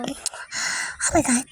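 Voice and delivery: slow breathy whisper. Real, not acted. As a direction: breathe it in disbelief. Whispered disbelief.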